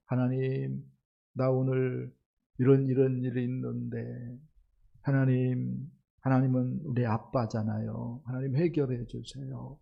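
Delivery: put-on soft, simple plea like a small child to daddy; childlike prayer to a father, softly pleading; childlike trusting prayer. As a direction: pray gently like a trusting little kid. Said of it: "하면서 어린아이처럼".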